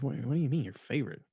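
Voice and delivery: quick, taken-aback question; thrown for a loop. Retold or imitated. Queen reacts to hearing of a favorite child, taken aback. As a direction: voice the Queen's puzzled double take. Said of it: "it threw her for a loop".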